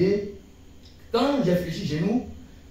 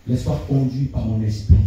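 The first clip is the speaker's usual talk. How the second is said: low, grave voice of the Almighty; big voice of God; 5 semitones lower than usual. Retold or imitated. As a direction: speak as God, low and solemn. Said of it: "Avec une grosse voix".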